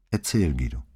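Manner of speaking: a softened, coaxing invitation; mildly tender prompt; slightly gentler. A narrator's reading. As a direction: gently ask him to tell it. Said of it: "Mit etwas sanfterer Stimme".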